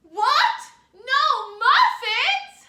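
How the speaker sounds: very high, very loud calling shout. Leading listeners in practicing a line again; shouting calling voice. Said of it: "One more time".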